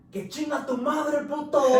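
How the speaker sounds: very high, loud jeering yell; mocking insult yell. Inmate insulting speaker in Spanish, loud high jeer. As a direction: scream the insult in triumph.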